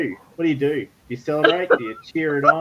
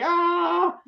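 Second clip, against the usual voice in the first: high mock battle yell; battle scream; 11 semitones higher than usual. A narrator's reading. Game master voicing Buren charging, high mock yell. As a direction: give a charging warrior's yell, lightly. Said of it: "screaming at the top of his voice".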